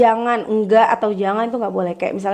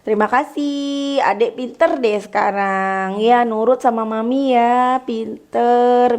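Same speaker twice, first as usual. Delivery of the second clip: slow, gentle praise; praising parent; 2 semitones higher, slower than usual. Shown as a demonstration. Mother praising her obedient child, slow and gentle. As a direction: praise the child tenderly and slowly.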